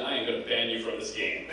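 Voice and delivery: firm retold threat, kept low-key; measured warning. Lord British warns the thief of a ban, firm and controlled. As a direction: lay down the law evenly.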